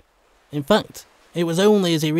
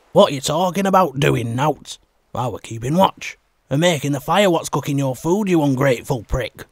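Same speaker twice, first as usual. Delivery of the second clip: louder, offended snap back at the accuser; indignant retort; 5 dB louder than usual. Acted. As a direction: bristle and throw the insult back. Second man hits back in quarrel.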